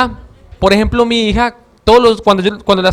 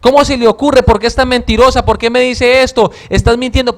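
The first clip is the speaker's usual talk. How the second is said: louder, higher mock scolding of a child; mock angry scolding; 4 semitones higher, 5 dB louder than usual. Father scolding his little daughter for lying, mock angry scolding. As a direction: scold her like a harsh parent, half-acted. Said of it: "Yo no me puedo poner a decirle a ella".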